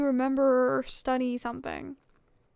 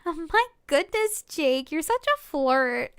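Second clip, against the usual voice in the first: excited teasing; 6 dB louder than usual. Acted. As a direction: tease him, half laughing. Haley teased by flirting Jake.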